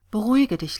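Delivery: understated calming "Beruhige dich"; mild soothing murmur, voiced. A narrator's reading. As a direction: reassure a friend, first word lifted then falling. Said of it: "raunte sie".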